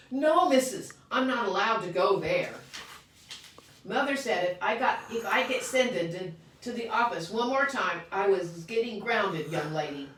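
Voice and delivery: put-on child pleading with teacher; pleading protest. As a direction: beg not to be sent away.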